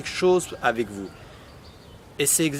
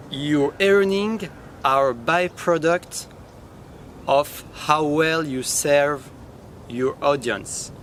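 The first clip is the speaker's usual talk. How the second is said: slow, careful English with a French accent; much slower than usual. Real, not acted. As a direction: read the English quote slowly in a French accent. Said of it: "désolé pour mon accent en anglais".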